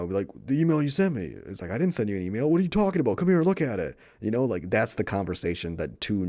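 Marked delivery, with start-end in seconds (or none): 0.5-1.4 higher, louder baffled reply; as if stating the obvious; incredulous. Retold or imitated. A normal person confronting their sister, incredulous. 1.7-4.0 "I didn't send you an email" rising into a higher, louder baffled protest; genuinely confused, come see for yourself; incredulous. Retold or imitated. Sensible sister baffled by the email accusation, incredulous.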